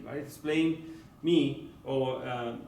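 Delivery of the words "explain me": slow gloss. Shown as a demonstration. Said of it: "Explain to me".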